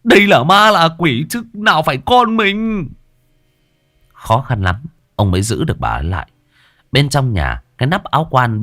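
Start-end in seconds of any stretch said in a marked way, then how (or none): 0.0-2.9 high, firm urging to hold her back; stern husband. Acted. Husband restraining his wife at the coffin, urgent and firm. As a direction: shake her back to her senses.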